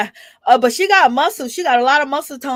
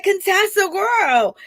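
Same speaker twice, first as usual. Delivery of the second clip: shocked call; 8 semitones higher, slower than usual. Retold or imitated. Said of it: "I was like".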